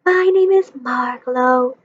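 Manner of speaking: slow, lilting bird voice, a touch of softness; soft, musical. Acted. Bird introducing herself to Stuart, slow and lilting. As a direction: sing your name gently. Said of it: "said the bird softly in a musical voice".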